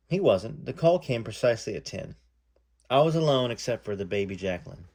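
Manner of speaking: reading a memoir aloud, lightly voicing the callers; story narration. A narrator's reading. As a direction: read it like telling the story to an audience. Reads memoir aloud to viewers.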